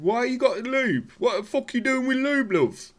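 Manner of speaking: high, loud mocking British girlfriend voice; shrill angry girlfriend. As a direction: screech it like an outraged wife. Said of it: "She said".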